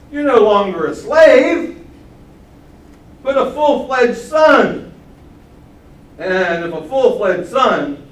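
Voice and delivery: high, loud and slow scripture proclamation; emphatic reading. Acted. Preacher proclaims the verse slowly, loud and high.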